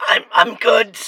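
hoarse, croaky voice; raspy ruined voice. Acted. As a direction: speak through a burnt throat. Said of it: "Your voice sounds all gone".

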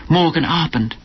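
high, swooping lover's telephone voice in German; performed, fluting sweet talk; theatrical cooing. A narrator's reading. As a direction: gush extravagantly to a darling on the phone. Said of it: "watching her like a performance at the theatre".

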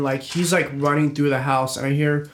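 normal talking voice

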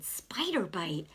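slow, drawn-out echo in disbelief; surprised echo. Retold or imitated. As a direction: repeat it slowly, mildly taken aback. Her surprised echo, retold.

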